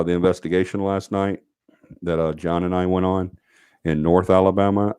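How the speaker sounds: heavy breathing into the mic; audible breaths between the words. Real, not acted. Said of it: "You sound like a heavy breather".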